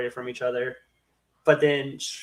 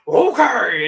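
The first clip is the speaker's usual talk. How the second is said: louder, higher giddy okay; mock eager okay; 6 semitones higher, 9 dB louder than usual. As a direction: agree like a thrilled kid. Venom agrees, retold.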